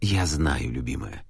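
low, soft, sorrowful husband; sadly. A narrator's reading. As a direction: comfort her with quiet grief. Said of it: "грустно сказал Гермес". (Гермес грустно жене: тихо, низко)

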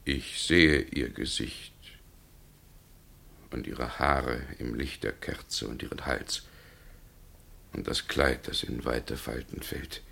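soft, hushed and entranced; quiet, dreamy murmur in the candlelight. Acted. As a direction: murmur it as if spellbound by her face.

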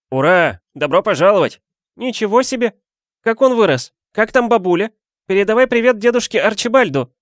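high, loud overlapping cheers; a rowdy crowd welcoming him; crowd cheering. A narrator's reading. Crowd of relatives welcoming the guest, excited. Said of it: "Загомонила толпа".

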